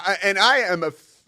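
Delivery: usual speaking voice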